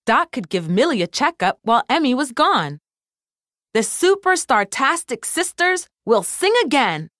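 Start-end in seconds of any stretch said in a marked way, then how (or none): 3.7-7.1 confident. Acted. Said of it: "Doc said confidently".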